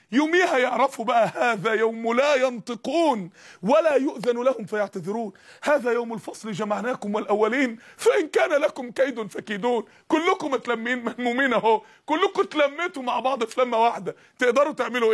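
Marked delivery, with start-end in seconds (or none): 1.3-9.8 measured Quranic chant. Acted. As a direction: recite as scripture, unhurried. Long verse recited.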